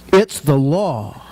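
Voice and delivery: slow, laughing quote of the son; a son lecturing his dad, mock-serious; teenage son quoted. Son quoting the law at his dad, slow and amused. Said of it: "And this is a quote".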